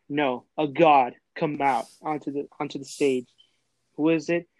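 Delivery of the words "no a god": slow, weighty correction for effect; dramatic reveal. Shown as a demonstration. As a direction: stretch it out like announcing a legend. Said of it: "As you see a figure".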